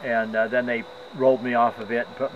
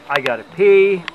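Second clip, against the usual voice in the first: louder, higher cry of urgency; urgent plea; 6 semitones higher, 9 dB louder than usual. Retold or imitated. Patient waiting for a bedpan, loud urgent plea. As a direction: act out desperately needing relief.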